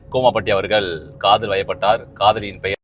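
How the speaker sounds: low, measured mock news headline; mock formal announcement. Revealing a friend's love, mock formal announcement.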